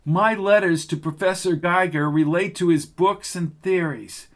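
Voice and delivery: a student pleading her case; young girl Lucy. Acted. Lucy defends herself.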